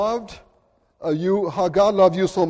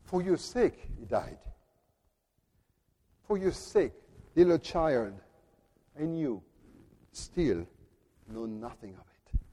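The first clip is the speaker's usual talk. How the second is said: solemn baptismal charge; 3 semitones lower, 5 dB quieter than usual. Retold or imitated. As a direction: speak it like a blessing over a child. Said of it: "This is what we say every time".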